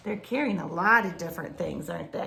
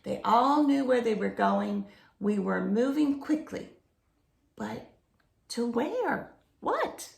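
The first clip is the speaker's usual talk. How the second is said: reading a picture book aloud; story narration. A narrator's reading. Reading a jungle story to children, storybook narration. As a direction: tell the jungle adventure to children, storybook pace.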